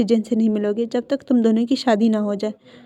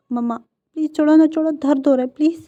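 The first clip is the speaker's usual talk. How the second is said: fast, higher ow-let-go plea; pleading in pain; 4 semitones higher, faster than usual. Acted. Son begs his mother to let go of his ear, quick pained plea. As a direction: rush it out as your ear is twisted.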